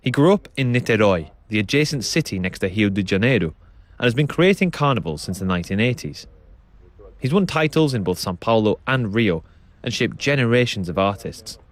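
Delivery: measured, scripted radio presenter delivery; documentary narration. A narrator's reading. Presenter introducing the samba school story to listeners, documentary narration.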